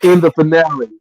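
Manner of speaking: emphatic read-aloud of someone's rant; reading an angry post aloud. Retold or imitated. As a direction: recite a friend's indignant review, phrase by phrase.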